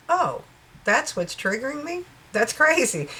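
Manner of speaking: high-pitched mock surprise, easing down; acted realization. Viewer realizing what triggers them, acted surprise.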